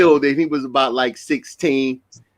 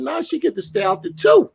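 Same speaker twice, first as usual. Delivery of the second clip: put-on much higher, pleading teen; high plea; 14 semitones higher than usual. Boy pleading with his dad over curfew, high. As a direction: beg dad for the later curfew. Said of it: "I said".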